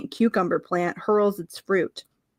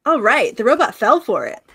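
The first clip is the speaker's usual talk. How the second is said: excited; 3 semitones higher, 6 dB louder than usual. Real, not acted. Celebrating success.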